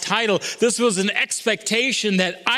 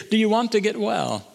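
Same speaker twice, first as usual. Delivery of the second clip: higher, disbelieving retort; incredulous; 3 semitones higher than usual. Retold or imitated. Preacher questioning why Jesus would ask this, incredulous. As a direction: ask it as if it were a cruel question. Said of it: "that's torturous".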